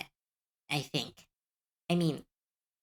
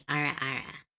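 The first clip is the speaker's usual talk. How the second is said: lower, sultry anime-style catchphrase; deepened sexy voice; 5 semitones lower than usual. Shown as a demonstration. Streamer trying out a suggested sexy voice, slightly deepened. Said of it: "Slightly deepen the voice and say".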